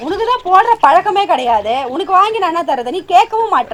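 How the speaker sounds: scolding. Acted. Wife scolding crying husband.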